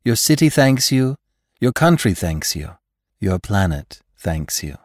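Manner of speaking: sweet, grand thank-you from a receptionist; gracious society hostess. Acted. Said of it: "said the hostess".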